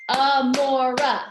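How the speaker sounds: AMORA in three loud, slow beats; syllable by syllable. Shown as a demonstration. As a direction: clap out A, MO, RA in AMORA. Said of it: "has three also".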